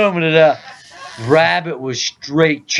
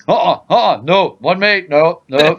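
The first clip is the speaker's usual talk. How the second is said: mock denial; 3 semitones higher than usual. Acts out sleeper's startled denial.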